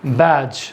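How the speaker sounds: बैज repeated with the d silent; model word. Shown as a demonstration. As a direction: echo बैज cleanly for the class. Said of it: "इसको हम लोग क्या बोलेंगे?".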